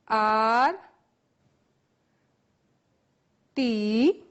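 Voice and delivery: letter by letter, long pauses between; spelling out. Shown as a demonstration. Teacher dictating a spelling to the class, letter by letter. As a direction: dictate each letter slowly for writing. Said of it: "Write the spelling with me".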